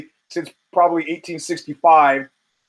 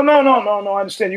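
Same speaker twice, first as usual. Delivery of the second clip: dismissive protest; 4 semitones higher, faster than usual. Retold or imitated. Mocking the Mossad guy's warning.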